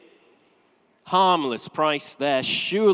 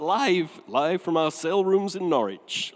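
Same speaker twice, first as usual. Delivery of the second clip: TV announcer impression. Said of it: "Do you remember that?".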